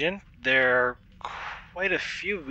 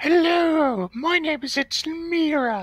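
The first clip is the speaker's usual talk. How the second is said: put-on comedy woman voice, much higher pitch; 12 semitones higher than usual. Trying out voices for Mira, a speaker introduces her in a Monty Python voice. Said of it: "the Monty Python voice".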